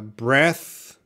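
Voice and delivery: clearly articulated "breath", unvoiced final th; noun pronunciation. Shown as a demonstration. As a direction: say "breath" to rhyme with death. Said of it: "Do not confuse the pronunciation".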